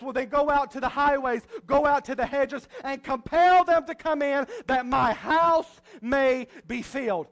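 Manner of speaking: loud order, slowing at "that my house may be filled"; urgent command. Retold or imitated. Master ordering servant to the highways, loud and urgent. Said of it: "He says".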